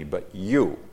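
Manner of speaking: "you" pushed up in pitch; emphatic YOU. Real, not acted. Teacher reading out an emphatic pronoun, stress on "you". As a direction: make "you" stand out after "but". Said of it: "emphatic pronoun again".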